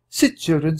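high, gentle woman's voice; a French farmwife comforting hiding children; Suzette. A narrator's reading. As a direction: reassure the children as a kind mother.

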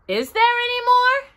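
high, eager bear voice; high Pooh voice, hopeful. A narrator's reading. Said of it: "asked Pooh quickly".

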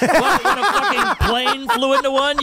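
loud, slow and incredulous; outraged rant. Real, not acted. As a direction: hammer it with disbelief. Ranting at the argument.

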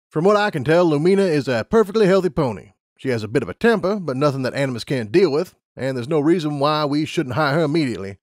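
brisk scientist explaining rules; lab unicorn. Acted.

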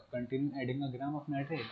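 very slow, word-by-word reading aloud; slow textbook reading. Shown as a demonstration. Teacher reading the textbook definition to the class, slow and deliberate. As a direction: read the definition slowly so students can follow.

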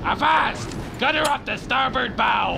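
loud pirate hail; pirate call. Acted. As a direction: bark it like a pirate on deck. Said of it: "He's a pirate!".

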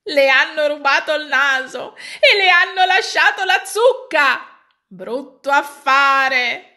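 loud, laughing jeer from the crowd; mocking laughter. A narrator's reading. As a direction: taunt him through laughter. (scherno ridendo, forte)

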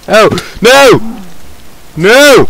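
high, loud wail of "no"; dismayed cry. Real, not acted. Gamer checking on their cows, dismayed high cry.

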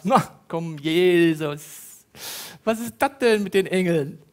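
a light mock of a doubting reader; doubtful scoffing. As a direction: play the doubter brushing it off. Voicing a doubting Bible reader.

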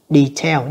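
Detail, with the second syllable stressed. Shown as a demonstration. Teacher repeating the second reading of Detail, second-syllable stress. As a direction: lean on the final syllable of Detail. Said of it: "nhấn âm hai".

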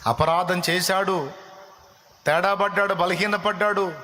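high, impassioned sermon voice, rising phrase by phrase; soaring pulpit fervour; fervent preaching. Acted. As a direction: preach it with fire to the congregation. Preaching at full force.

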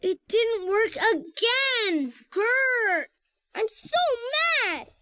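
put-on mildly angry childlike outburst; frustrated. Child whose car failed again, frustrated. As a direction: growl through the frustration.

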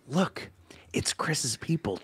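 hushed, secretive aside, slowed down; retold whisper. Telling a friend about a park sighting, in a whisper. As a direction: lean in and breathe it like a secret. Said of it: "she whispers in my ear".

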